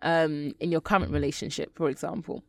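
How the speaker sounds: talking with a retainer in; words slightly blurred by retainer; wearing a retainer. Real, not acted. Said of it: "sorry, I've got my retainers in today".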